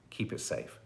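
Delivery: soft unvoiced whisper, trailing away. Host echoing the sign-off to viewers, whispered. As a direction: breathe it like a secret. Whispered echo of own reminder.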